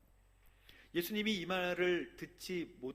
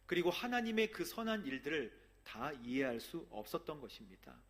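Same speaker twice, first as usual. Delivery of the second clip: fervent preaching; 5 dB louder than usual. Acted. Pastor pressing the congregation on why Jesus was rejected, fervent preaching. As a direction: raise the voice and drive the point home.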